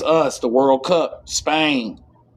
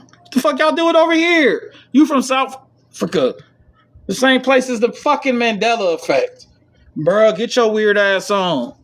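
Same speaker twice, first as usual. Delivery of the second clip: mock outrage; 8 semitones higher than usual. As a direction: yell at them in disbelief. Calling out the aliens.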